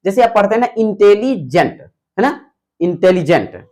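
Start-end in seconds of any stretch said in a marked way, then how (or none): 0.8-1.8 इंटेलिजेंट broken with a pause before जेंट; pause between syllables. Shown as a demonstration. Teacher showing students how a double-syllable word halts, pause between parts. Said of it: "थोड़ा रुक रुक के पढ़ते हो". 2.8-3.6 इंटेलिजेंट in two parts, slight pause before जेंट; pause between syllables. Shown as a demonstration. Teacher repeating the example for students, slight pause inside the word. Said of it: "ठहराव आ जाता है".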